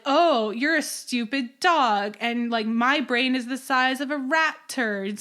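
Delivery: lightly mocking, drawn out at the start; a hint of a taunting cow. Cow making fun of the dog, mild retold mockery. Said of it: "the cow starts mocking him".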